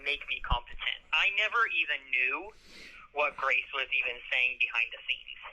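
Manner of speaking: muffled jail phone line; on a prison phone. Real, not acted. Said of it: "legal advice over the phone".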